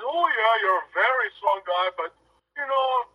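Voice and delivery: light imitation of a heavy Norwegian accent. Retelling the legend's phone brush-off, light mock Norwegian accent. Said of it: "in his heavy Norwegian accent".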